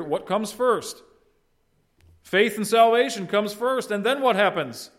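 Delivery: high, emphatic teaching; forceful preaching. Real, not acted. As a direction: press the point on the congregation. Preacher drives the point home.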